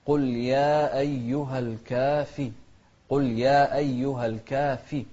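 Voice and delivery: الكافي with a clear ف and kasra. Shown as a demonstration. Teacher showing the clear fa in الكافرون. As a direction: stress the ف in الكافي. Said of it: "نوضح الفاء".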